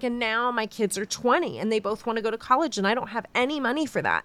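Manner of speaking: rushed pleading, half-acted; mock weeping. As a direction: imitate someone crying about money, lightly. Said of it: "so he starts crying".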